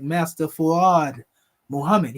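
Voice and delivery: "Fuad" said fuh-WAHD, no hard R; "Master Fuad Muhammad" with "Muhammad" as moh-HAH-med; no R in "Fuad", just fuh-WAHD; Fuad without the R. Retold or imitated. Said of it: "He didn't say it with a hard emphasis on R".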